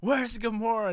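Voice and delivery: high, loud hammed-up demand; mock demand. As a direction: bark the question like Star-Lord. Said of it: "Star-Lord's like".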